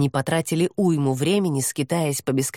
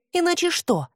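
a much higher, mocking dare; defiant challenge; 12 semitones higher than usual. A narrator's reading. Hesti dares the demon to finish his threat, much higher. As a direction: throw his threat back in his face.

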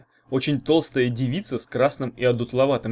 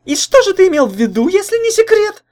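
high, loud, needling questions; probing; 11 dB louder than usual. A narrator's reading. Jealous girlfriend grills her boyfriend, high and probing. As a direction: dig at him for the truth, high and pointed. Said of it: "допытывалась Лайда".

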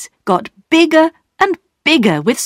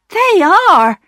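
much higher, glad agreement; happily; 11 semitones higher, 4 dB louder than usual. A narrator's reading. Wife agrees with husband, happily. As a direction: agree with joy. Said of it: "agreed his wife happily".

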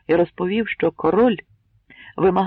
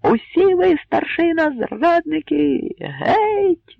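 furious high shout, зрадники stretched out slowly; crowd outburst; 12 semitones higher, 6 dB louder, much slower than usual. A narrator's reading. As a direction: explode at the elders in rage. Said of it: "вибухнула юрба". (вибух гніву юрби)

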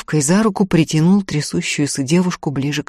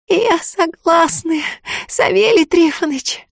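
a hoarse, slow, much higher but firm vow; hoarse resolve; 13 semitones higher, slower than usual. A narrator's reading. The tearful girl swears obedience to the sorcerer, hoarse and resolute. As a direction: agree through a throat raw from crying. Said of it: "хрипло и решительно сказала".

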